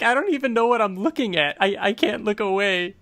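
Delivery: mock Eve. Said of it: "she's like".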